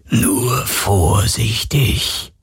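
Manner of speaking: slow, hushed phantom voice; ghostly murmur. A narrator's reading. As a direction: murmur it coldly and slowly. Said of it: "raunte die Geisterstimme".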